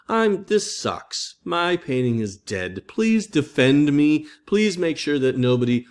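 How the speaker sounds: mock-pleading Michelangelo; moaning Michelangelo. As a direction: beg like a put-upon painter. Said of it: "He's just pissing and moaning".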